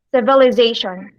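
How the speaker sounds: "civilization" with emphasis on ZA; teacher's careful stress demo of "civilization", weight on ZA; syllable stress. Shown as a demonstration. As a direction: lean on the ZA in "civilization". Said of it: "What about in civilization?".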